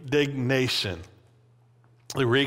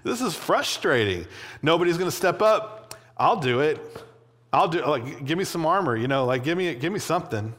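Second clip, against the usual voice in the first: frustrated David; 4 semitones higher than usual. Retold or imitated. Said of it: "He's, like, angry about it".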